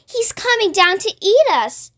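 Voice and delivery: high, fearful wail. Acted. Grasshopper wailing to the others in fear. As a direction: wail out in terror. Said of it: "wailed the old green grasshopper".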